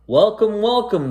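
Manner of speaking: high, loud sly welcome; grinning driver. Acted. Creepy bus driver welcoming the boy aboard, high sly grin. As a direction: greet him like a grinning trap. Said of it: "the driver grinned".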